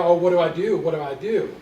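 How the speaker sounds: mock panic, caught off guard; flustered panic. Clerk facing a signing deaf customer, mock panic. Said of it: "like a deer in headlights".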